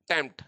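"टेम्प्ट" set apart and stressed; stressed syllable. Shown as a demonstration. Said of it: "ये stressed होता है".

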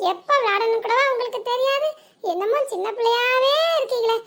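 put-on teasing young bride voice; young sister-in-law. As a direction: play the chirpy younger woman.

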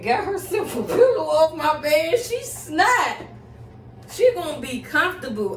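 high, loud laughing disbelief. Real, not acted. Laughing at the dog.

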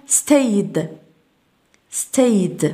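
"stayed" drawn out slowly, ending on D. Shown as a demonstration. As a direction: stretch "stayed" and close it with a D. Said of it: "تنطق ال إي دي تنطق دي". (نطق "stayed" ببطء بدال في آخرها)

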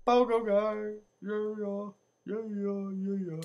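high, drawn-out cheering; playful cheer. Real, not acted. Player hyping his new pogo character, playful high cheer.

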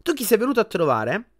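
cheerful Ron. A narrator's reading.

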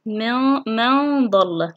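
very slow من ضل with held hum; ikhfa demonstration. Shown as a demonstration. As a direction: stretch the nasal from من into ضل. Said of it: "في حالة الكلمتين". (إخفاء النون بغنّة في من ضل)

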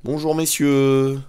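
high, slow, loud hello; drawn-out sing-out announcement; mock greeting. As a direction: stretch out a playful greeting. Mock greeting to game monsters.

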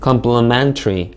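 slow "complementary", stress on MEN; com-ple-MEN-tary, "complementary" drawn out; careful word stress. Shown as a demonstration. Teacher models "complementary" for students, careful word stress. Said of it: "강세를 잘 주의해서".

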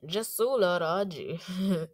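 "Jasul Arraez" very slow, ending in a "ji" sound; imitated foreign pronunciation. Vlogger echoing a translator voice, "Jasul Arraez" slowly ending "ji". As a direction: draw out "Jasul Arraez", last syllable as "ji". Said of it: "Haitian Creole is such a cool language".

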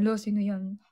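closer to her own voice, just a touch of teasing; mild playful question; lighter tease. Retold or imitated. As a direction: toss it off casually. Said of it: "asarin ko siya".

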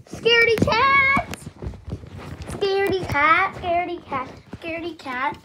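sing-song taunt, starting high and loud then fading. Acted. Teasing the friend who refuses to go in, singsong. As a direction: tease them, letting it die away each time.

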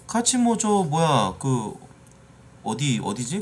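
ordinary talk, nothing marked

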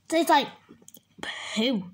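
whispered disgust. Real, not acted. To viewers about the drink, whispered disgust. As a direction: spit the last word out in a whisper.

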